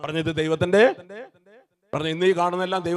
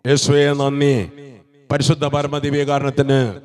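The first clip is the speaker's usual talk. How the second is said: slow, very loud cry of thanks; loud slow praise; 3 semitones lower, 6 dB louder, slower than usual. Real, not acted. Preacher leading the congregation in loud, slow praise. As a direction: pour out the thanks, drawn out.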